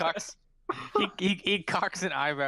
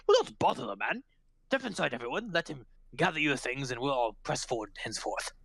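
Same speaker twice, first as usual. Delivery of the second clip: commanding head constable. Acted. Head constable sending the detectives inside, formal command. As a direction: order everyone in with formal authority.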